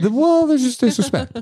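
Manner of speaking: high, laughing mock voice; giggling through the words. Mocking caller while laughing.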